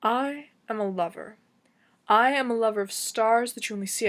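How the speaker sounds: emphatic slam delivery, key words punched; slam poetry. Acted. Poet slamming one of their personal pieces, impassioned slam poetry.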